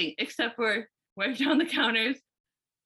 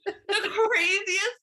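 stretched high voice; 9 semitones higher, 3 dB louder, much slower than usual. Retold or imitated. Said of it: "high-pitched thing".

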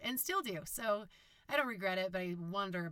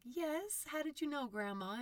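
chirpy surprise; 8 semitones higher than usual. Retold or imitated. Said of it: "And I was like".

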